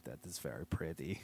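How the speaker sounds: put-on accented king character; broken-English royal voice; foreign king voice.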